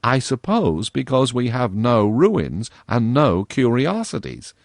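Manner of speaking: dry, slow mocking girl voice; a touch of girlish sarcasm; satirical. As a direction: tease him with mock pity. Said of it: "said Virginia satirically".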